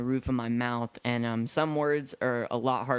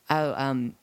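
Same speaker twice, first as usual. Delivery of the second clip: mock British. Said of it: "they're like".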